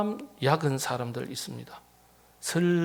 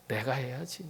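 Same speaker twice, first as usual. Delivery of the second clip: whisper; 3 semitones lower, 11 dB quieter than usual. Acted. Samaritan's inner resolve.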